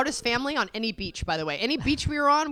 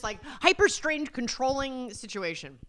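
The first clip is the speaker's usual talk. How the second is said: ordinary talk, nothing marked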